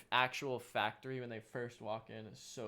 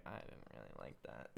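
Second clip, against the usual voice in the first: mock unimpressed voice; 14 semitones lower, 14 dB quieter than usual. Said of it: "and it's like".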